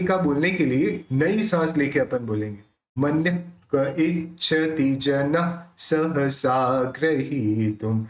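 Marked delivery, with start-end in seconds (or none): 3.0-8.0 slow recitation sounding the visarga in मन्यः with a breath; visarga pronounced. Shown as a demonstration. Teacher showing students the full visarga, slow and careful. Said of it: "तो उस विसर्ग का पूरा pronounce निकलेगा".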